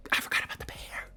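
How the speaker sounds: tiny high squeak, half whispered; choked up. Real, not acted. Gushing over a little girl character, choked up. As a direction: voice climbing high as if about to cry.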